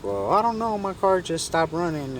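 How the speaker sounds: high falsetto easing down in pitch; imitated woman. Lady explains her car trouble, in mock high voice. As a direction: mimic a helpless lady in a high voice. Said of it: "And she's like".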